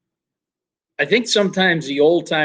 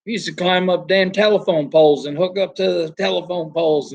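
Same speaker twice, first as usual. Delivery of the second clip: higher-pitched imitation of a Southerner; attempted Southern accent; 4 semitones higher than usual. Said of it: "I can't do his Southern accent".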